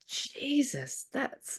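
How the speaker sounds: high, stunned gasp of a reaction; sudden high disbelief at her own words; shocked at herself. Retold or imitated. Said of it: "I was like".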